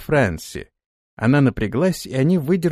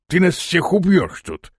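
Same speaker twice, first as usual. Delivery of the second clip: angry shout; 6 semitones higher than usual. Acted. Torval shouting at Fransi after another branch hits him. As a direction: shout at her for leading them into the branches.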